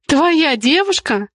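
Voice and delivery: slow, high outraged question; outraged disbelief, drawn out; indignant. A narrator's reading. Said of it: "возмутилась Николетта".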